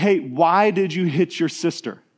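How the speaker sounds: ordinary delivery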